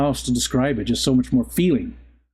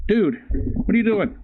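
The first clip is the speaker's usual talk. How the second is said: surprised; 7 semitones higher than usual. Real, not acted. Dog interrupts him.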